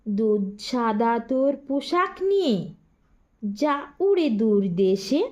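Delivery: rhythmic sing-song rhyme reading, each line set apart; measured nursery-rhyme recital; poem recitation. Acted. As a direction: recite the rhyme to first graders. Teacher recites children's rhyme.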